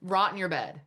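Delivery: mother rages at her own angry part, hammed-up but lightly; angry inner scolding. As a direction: yell at yourself like your harshest critic. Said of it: "this is what I would tell my part".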